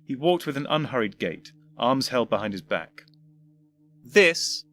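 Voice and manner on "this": put-on an old man's patient, tired opening; lightly voiced elderly doctor, weary; weary patience. Elderly doctor greeting his later self with weary patience. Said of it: "with an air of weary patience".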